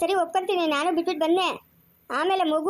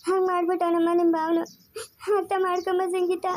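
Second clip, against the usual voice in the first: tearful begging sister; crying plea; 2 semitones higher than usual. Acted. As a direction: plead with her while holding back tears.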